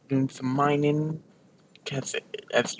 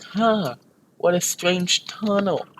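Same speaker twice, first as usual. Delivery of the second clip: higher-pitched light wonder; mock puzzlement; 5 semitones higher than usual. Parents emerge from the tunnel, mock puzzled. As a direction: sound idly puzzled in a raised pitch.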